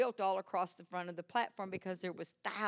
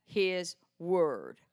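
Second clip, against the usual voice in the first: announcing the title; 2 semitones lower, 4 dB louder, much slower than usual. Real, not acted. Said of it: "title of the message".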